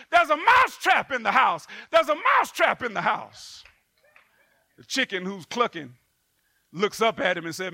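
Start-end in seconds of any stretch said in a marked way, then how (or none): 0.1-3.6 mock yell. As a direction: raise the alarm like a frantic mouse. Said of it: "begins to yell out".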